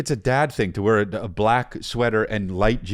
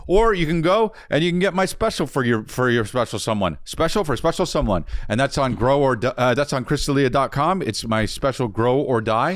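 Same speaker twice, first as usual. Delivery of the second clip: out of breath. Real, not acted. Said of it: "So out of breath".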